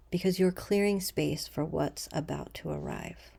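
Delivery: soft, unhurried meditation voice with long pauses; guided meditation. Acted. Leader guiding listeners to breathe and imagine a threshold, calm meditation voice. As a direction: ease them gently into stillness, letting sentence ends fall away.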